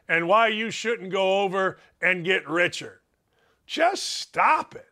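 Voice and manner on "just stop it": slow, high fed-up plea; exasperated plea. Real, not acted. Host tired of golfers whining, slow high exasperated plea. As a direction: stretch it out, completely over it.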